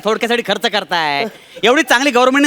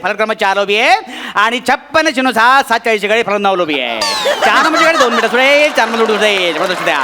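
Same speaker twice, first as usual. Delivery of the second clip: through a megaphone; 3 semitones lower than usual. Acted. Station announcement on the mic.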